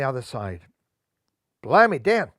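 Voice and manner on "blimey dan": loud, high thrilled yell; excited scream. A narrator's reading. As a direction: shout it off the roller coaster. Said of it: "screamed Alan Ram".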